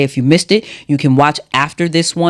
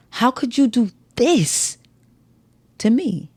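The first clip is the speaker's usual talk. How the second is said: "you" stressed in a higher, slow voice; raised, hurt question hitting "you"; 8 semitones higher, 6 dB quieter, slower than usual. Shown as a demonstration. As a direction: pitch it up and lean on "you". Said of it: "when altering the emphasis on a word".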